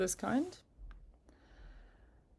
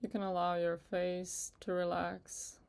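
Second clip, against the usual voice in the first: unhurried meditation guide with long pauses; guided meditation; 5 dB quieter than usual. Acted. Guide asking listeners to relax with each breath, in calm meditation voice. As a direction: ease them gently through it, leaving space between phrases.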